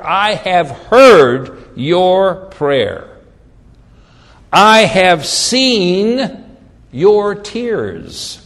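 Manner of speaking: very slow, weighty proclamation; drawn-out, solemn quotation with big pauses; scripture declamation. Acted. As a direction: deliver God's answer word by word. Repeats God's answer.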